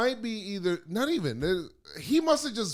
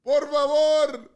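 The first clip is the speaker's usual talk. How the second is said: high pleading cry, much higher; overacted death scene; 9 semitones higher, 6 dB louder than usual. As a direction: beg for revenge like a dying hero. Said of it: "Venezuelans holding Apollo".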